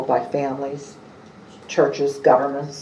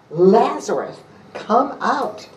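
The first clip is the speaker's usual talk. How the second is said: calling out high, a lifted cry into the tomb; loud cry; 8 semitones higher, slower than usual. A narrator's reading. Jesus calls Lazarus out of the tomb, a high ringing cry. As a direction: raise the voice high and call him out. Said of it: "he cried out in a loud voice".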